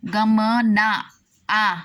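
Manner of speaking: slow, stretched "गमना आ" with a long held आ; drawn-out sandhi. Shown as a demonstration. Teacher to students, showing the sandhi, stretched slowly. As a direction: pull the vowel आ apart from गमना, very slowly. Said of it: "उच्चारण करो स्वर".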